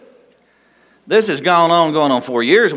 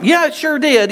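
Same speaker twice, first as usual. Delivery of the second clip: sheepish answer. Retold or imitated. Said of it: "and it was like".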